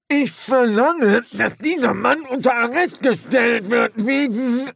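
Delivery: very high, loud outraged demand; indignant corporal. A narrator's reading. Corporal demanding the troll's arrest, very high and indignant. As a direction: demand it, puffed up and shrill. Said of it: "begann Strappi".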